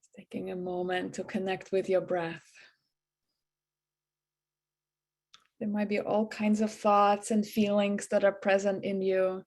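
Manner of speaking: even, unhurried meditation guide with little pitch movement; gently guiding meditation voice; guided meditation. Acted. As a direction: softly lead them into the breath.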